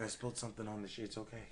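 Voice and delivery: hushed cover story. Retold or imitated. Quick excuse to his sleepy girlfriend, hushed. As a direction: rush the excuse under your breath.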